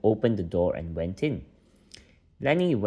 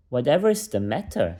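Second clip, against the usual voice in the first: in surprise; 4 semitones higher, 4 dB louder than usual. Acted. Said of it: "said Lenny in surprise".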